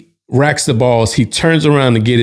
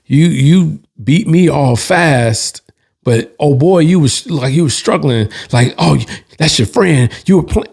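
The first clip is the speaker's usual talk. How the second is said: imitating an irritated opponent, pitched up; mildly aggrieved sore loser, higher voice; pissed off; 4 semitones higher than usual. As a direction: retell his grumbling complaint in a higher pitch. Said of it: "he's pissed 'cause he's like".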